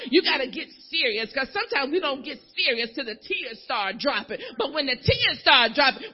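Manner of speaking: ordinary talk, nothing marked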